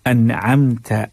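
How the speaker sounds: अनअमता recited evenly, without a stress on ता; recitation demo. Shown as a demonstration. Teacher shows how to recite अनअमता. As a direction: chant अनअमता smoothly. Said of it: "ता नहीं कीजिएगा".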